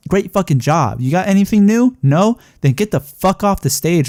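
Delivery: angry fan telling the wrestler to leave; heated rant. Real, not acted. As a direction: tell him off with real heat. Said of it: "I got so heated about it".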